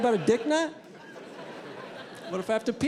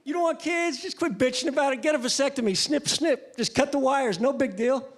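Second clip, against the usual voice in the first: friend's casual advice; 3 semitones higher than usual. Retold or imitated. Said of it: "I got a friend, he's like".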